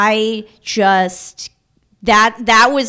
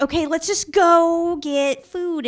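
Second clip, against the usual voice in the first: slow, higher, coaxing voice; acted patience; 8 semitones higher, 4 dB quieter than usual. Ex coaxing her to go get food, slow and patient. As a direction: stretch it out patiently, lightly imitated. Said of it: "my ex was really patient with me".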